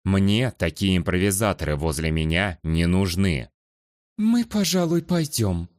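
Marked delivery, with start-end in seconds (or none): 4.2-5.7 sour. Acted. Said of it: "кисло выдавила из себя Луана".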